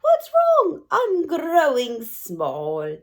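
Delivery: high alarmed cry sinking slow; tall boy crying out. Acted. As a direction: gasp it in dismay. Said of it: "cries out".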